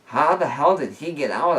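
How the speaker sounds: loud angry demand; bellowed. A narrator's reading. Owner finding the wrecked room, bellowing angrily. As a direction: bellow it at the mess. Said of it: "I bellowed".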